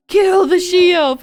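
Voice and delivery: loud, slow orc growl. Retold or imitated. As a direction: bark it like a bloodthirsty orc. Orcs voiced in a retold video.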